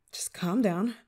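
whispered, after a sigh; self-soothing whisper. Acted. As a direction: whisper it to steady your nerves. Soothing herself, whisper heard.

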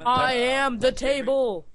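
slow, drawn out I am the table; slow mock table voice. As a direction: announce yourself as furniture, slowly. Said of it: "plays a prop disguise".

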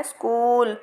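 स्कूल with a long stretched oo; teacher drawing out the long vowel; drawn-out long oo. Shown as a demonstration. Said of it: "खींच के बोलना है हमें".

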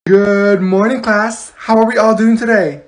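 loud, chipper classroom greeting; cheery teacher. Acted. Teacher greeting a sleepy Friday class, loud and chipper. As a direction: greet the class with big morning pep. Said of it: "Why is she acting like that?".

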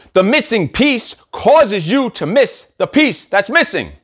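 slow, deliberate tongue twister, every word placed. Shown as a demonstration. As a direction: spell it out slowly like a riddle. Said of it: "I'll repeat that".

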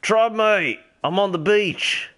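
calling out. Real, not acted. Shouting for his lost tribemate.

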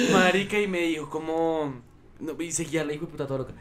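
usual speaking voice

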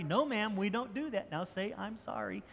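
mild mock-stern parent voice; firm parent. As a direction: parent repeating the lesson to a toddler, lightly voiced. Parent correcting a toddler.

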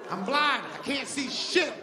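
high mock-panicked shout; acted panic. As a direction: cry out as if suddenly blinded. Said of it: "when I panic".

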